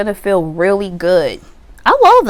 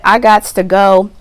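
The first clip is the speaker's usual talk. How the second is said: louder, firm "I gots to go"; determined declaration; 5 dB louder than usual. Pretend. Client declaring she is moving on, firm and louder. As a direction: announce you're leaving, no discussion. Acted quote, first take.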